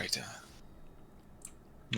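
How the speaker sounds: slow worried whisper to the party; huddled whisper. Pretend. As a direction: keep it hushed so the lizards can't hear. Whispered huddle among players.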